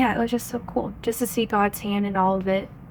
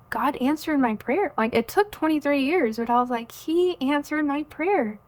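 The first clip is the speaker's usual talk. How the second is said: retold joy; 5 semitones higher than usual. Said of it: "that joy I felt".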